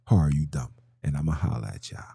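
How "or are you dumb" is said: low-pitched "Or are you dumb", dropped right down; low deadpan take. Pretend. Catchphrase repeated in low voice.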